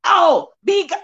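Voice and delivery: mock tongues babble like a televangelist; a hint of a televangelist speaking in tongues; Paula White imitation. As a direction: babble a fake prayer in tongues. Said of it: "that's my Paula White imitation".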